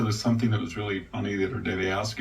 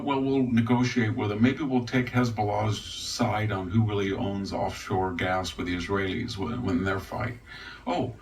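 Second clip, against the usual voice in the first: mock begging. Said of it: "he begged and begged".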